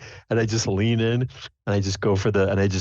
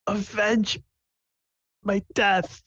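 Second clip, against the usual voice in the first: high, hammed-up dying plea; overacted death scene. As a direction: gasp out last words theatrically. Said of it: "I say".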